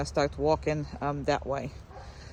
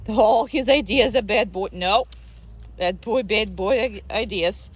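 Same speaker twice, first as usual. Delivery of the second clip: firm, louder scolding of a bad boy; scolding the dog; 2 semitones higher, 5 dB louder than usual. Trainer telling the dog he's a bad boy, firm scolding. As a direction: tell him off sharply. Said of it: "just because I'm talking like that".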